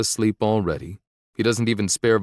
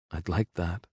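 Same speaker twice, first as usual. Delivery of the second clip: soft, smiling reply; smiling softly; 2 semitones lower, 6 dB quieter than usual. A narrator's reading. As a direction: let the smile show, quietly. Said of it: "I can hear the smile in her voice".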